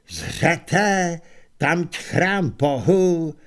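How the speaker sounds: slow, grand heroic declaration; heroic proclamation. Acted. Kohen announces the gods' temple to his horde, in a slow, grand heroic voice. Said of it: "prohlásil Kohen a znovu zaujal hrdinskou".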